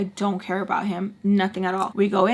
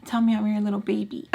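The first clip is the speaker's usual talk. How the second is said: put-on needy boyfriend. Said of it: "he would tell me".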